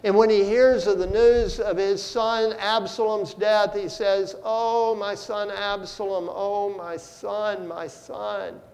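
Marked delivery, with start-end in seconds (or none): 4.4-8.6 grieving father's lament. Retold or imitated. David mourning his dead son.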